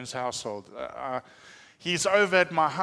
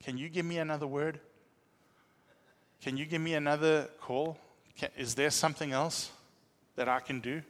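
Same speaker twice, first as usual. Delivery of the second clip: earnest pleading. Retold or imitated. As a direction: plead gently and humbly. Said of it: "begging God".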